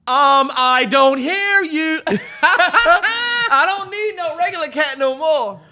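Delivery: slow, loud, high gloating; slow laughing brag at the cat. Pretend. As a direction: drag it out and gloat.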